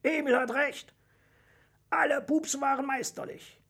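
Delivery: high-pitched crowd approval; enthusiastic audience. A narrator's reading. Audience agrees with the dragon's verdict, enthusiastic. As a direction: call it out high with delight. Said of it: "begeistert von Emils Vorschlag aus dem Publikum".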